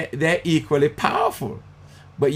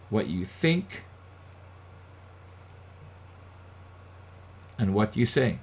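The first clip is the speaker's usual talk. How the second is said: quiet; 2 semitones lower, 8 dB quieter than usual. Shown as a demonstration.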